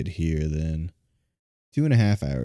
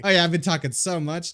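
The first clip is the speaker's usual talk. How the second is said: exaggerated Southern accent; 10 semitones higher, 4 dB louder than usual. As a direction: lay the Southern accent on thick. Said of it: "This one bad Southern accent".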